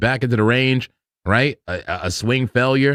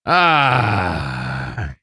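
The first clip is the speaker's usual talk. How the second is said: sigh; 7 semitones lower than usual. Real, not acted. Sigh after a long laugh.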